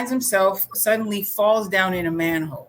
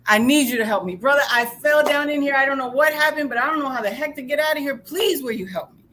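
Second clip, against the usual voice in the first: raised-voice mock plea, higher; screaming up; 5 semitones higher, 3 dB louder than usual. Trapped man begging his buddy Joe, screaming up. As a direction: beg urgently, easing off the scream. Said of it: "He screams up".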